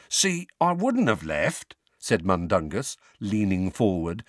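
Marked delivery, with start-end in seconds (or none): 0.1-1.8 pleading. Acted. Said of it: "a pleading note in his voice".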